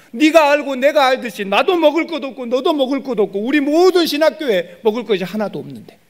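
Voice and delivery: high, loud, sustained pulpit cry; impassioned loud sermon delivery; full-force preaching. Real, not acted. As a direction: preach at full force, pitched far above talk.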